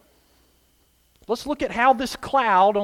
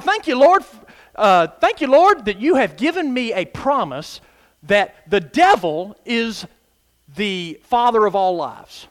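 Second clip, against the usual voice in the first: excited praise; 4 dB louder than usual. Retold or imitated. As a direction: thank the Lord with glee. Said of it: "So I'm like".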